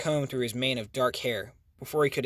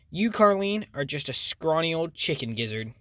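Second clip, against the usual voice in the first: snapping insult; 3 semitones higher than usual. Acted. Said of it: "Rhonda snapped back".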